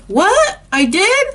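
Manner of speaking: put-on high, startled child's voice; guilty little girl. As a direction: play a four-year-old caught red-handed. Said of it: "I was like".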